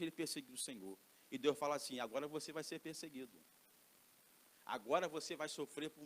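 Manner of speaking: a hint of God speaking to Paul; lightly voiced God. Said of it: "ver Deus pensando assim".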